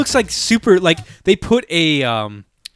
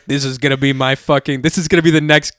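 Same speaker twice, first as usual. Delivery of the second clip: hyped movie fan; 5 dB louder than usual. Retold or imitated. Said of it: "Chad Hoy from the Dad Podcast is like".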